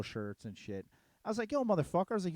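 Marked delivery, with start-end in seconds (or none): 1.5-2.1 retold confrontation. Retold street confrontation, calling out.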